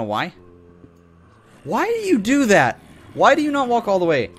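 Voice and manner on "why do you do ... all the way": mock scolding a mob. Player scolding a game mob, high mock voice. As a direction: scold the creature in a silly high voice.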